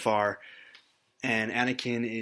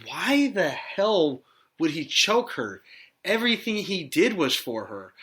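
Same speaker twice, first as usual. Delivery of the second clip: slow, drawn-out baffled question, raised pitch; exasperated disbelief; 4 semitones higher than usual. Retold or imitated. Host recalling his thought while watching, exasperated. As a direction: demand an explanation, baffled.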